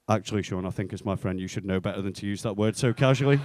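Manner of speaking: low-pitched, measured telling-off; mock-solemn reproach. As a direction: imitate a friend gravely disapproving. Friend feigns solemn disapproval.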